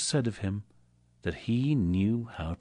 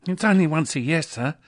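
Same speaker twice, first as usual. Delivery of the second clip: higher, begging clerk; pleading; 8 semitones higher, 5 dB louder than usual. Acted. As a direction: beg the boss for mercy. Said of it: "pleaded Bob".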